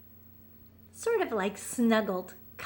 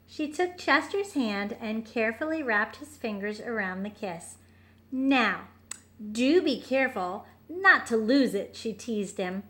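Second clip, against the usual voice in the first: put-on gentle read-aloud for a child; storybook narration. A narrator's reading. Parent reading a bedtime picture book, gentle.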